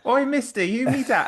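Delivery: high-pitched Cockney urchin impression; badly faked little Cockney child. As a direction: pipe up as a Cockney kid, far above your own voice. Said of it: "that Cockney Parisian child".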